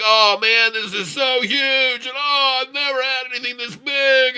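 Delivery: put-on over-the-top ecstatic girl. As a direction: ham up a thrilled girl in bed.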